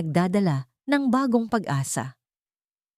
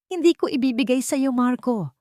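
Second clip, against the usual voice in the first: firm refusal; 7 semitones higher than usual. A narrator's reading. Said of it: "matatag na sagot ni Laya".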